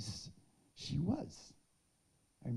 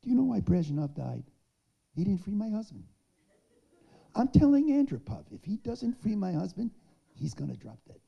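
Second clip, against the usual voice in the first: much higher and louder, defiant; fiery declaration; 8 semitones higher, 10 dB louder than usual. Retold or imitated. Avital warns Soviet leaders at the rally, defiant. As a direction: proclaim it like a rally threat. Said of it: "She said".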